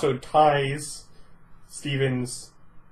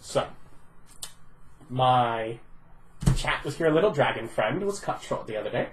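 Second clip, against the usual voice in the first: put-on British accent; 3 semitones lower, 5 dB quieter than usual. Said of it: "Apparently she's British".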